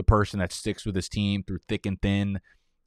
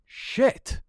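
breathy frustrated swear; hissed curse; 3 dB louder than usual. Real, not acted. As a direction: hiss the curse out. Frustration after pick.

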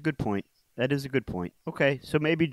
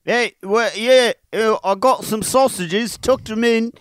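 high, loud-ish comic British accent; exaggerated British voice, pitched up; 7 semitones higher, 4 dB louder than usual. Shown as a demonstration. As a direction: ham up a cheery British bloke. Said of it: "In a British accent".

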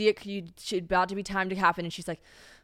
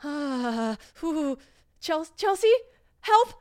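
much higher, imitating a desperate cry for help; imitated panicked plea; 4 dB louder, slower than usual. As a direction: reenact her begging Chelsea for help in labor. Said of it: "she goes to have a contraction".

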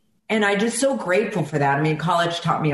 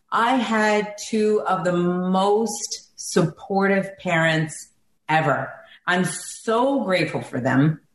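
holding back tears while praising her parents; slow, moved and tender; emotional; slower than usual. Real, not acted. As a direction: voice thick with feeling, slow. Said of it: "I'm sorry I'm getting emotional".

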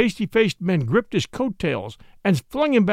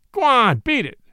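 gruff, louder, higher go away; rough dismissal; 5 semitones higher, 4 dB louder than usual. Acted. Horan waving off Watson, gruff. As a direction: shoo him off like a pest.

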